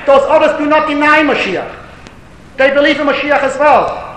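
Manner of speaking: insistent preacher; emphatic preaching. Real, not acted. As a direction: drive the argument home to the congregation. Preaches on the doubters.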